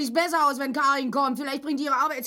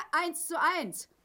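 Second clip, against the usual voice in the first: louder, laughing comeback; laughing retort; 6 semitones higher, 6 dB louder, much slower than usual. Acted. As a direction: laugh and score the point. Wife laughs back at husband. (lachende Retourkutsche)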